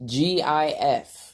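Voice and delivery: G I F, each letter slow and separate; spelled out letter by letter. Shown as a demonstration. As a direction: spell G I F out slowly. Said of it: "make gifts".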